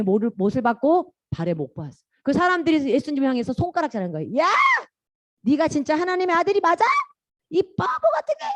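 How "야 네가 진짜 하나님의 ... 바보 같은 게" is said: high-pitched mocking challenge; hammed-up scornful heckle; acted jeering abuse. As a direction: taunt him, voice climbing at the insult. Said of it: "하면서 예수님 막 욕하고".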